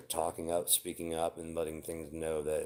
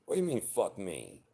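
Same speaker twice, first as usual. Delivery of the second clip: sharp indignant cry, far higher on do; indignant outburst; 3 semitones higher than usual. Acted. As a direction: snap back at a partner's rude look, much higher. Imagined fight over a look.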